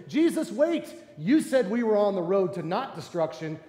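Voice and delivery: high panicked cry at Jesus; alarmed shout. Acted. Disciples in the storm crying out to Jesus, alarmed shout.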